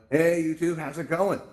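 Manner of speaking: calling out greeting. Acted. Host hails YouTube viewers on the camera, calling out a greeting.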